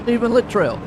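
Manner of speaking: "Littrell" run fast as LIT-ril; quick Littrell. Shown as a demonstration. Commentator practising a driver's name quickly. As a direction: clip "Littrell" short and fast. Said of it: "is that fast enough?".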